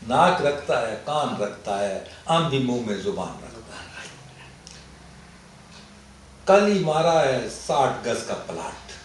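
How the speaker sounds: put-on comic couplets in Pashto-accented Urdu. Poet opening his Pathani ghazal at a mushaira, Pashto accent. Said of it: "میں پڑھتا بھی اسی لہجے میں تھا".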